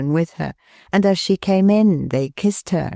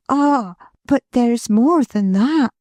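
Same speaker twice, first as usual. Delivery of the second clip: put-on higher, gentle young wife's voice; Milly, tender; 7 semitones higher than usual. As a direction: lovingly reassure her husband. Milly continues.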